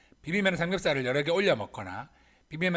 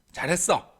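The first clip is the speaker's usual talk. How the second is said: put-on emphatic, louder praise for a child; mother's praise; 2 semitones higher, 5 dB louder, slower than usual. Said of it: "엄마가 칭찬해 주셨습니다". (힘주어 칭찬하는 엄마)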